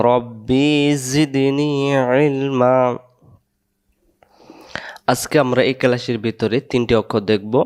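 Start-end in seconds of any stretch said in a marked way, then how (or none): 0.1-2.8 slow, stretched Arabic recitation; teacher chants the prayer slowly for students to repeat; recited supplication. Shown as a demonstration. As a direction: chant each word long and even for the class. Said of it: "আবার বলেন".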